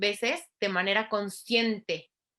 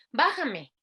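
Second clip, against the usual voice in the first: a touch higher, lightly voiced small child; child asking; 6 semitones higher than usual. Shown as a demonstration. Toddler in the high chair wanting down, lightly voiced child. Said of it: "¿qué verbo es?".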